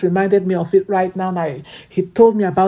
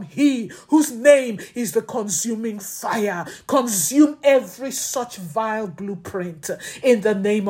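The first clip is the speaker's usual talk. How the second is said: fervent prayer; 2 semitones higher than usual. Acted. Tongues and warfare prayer.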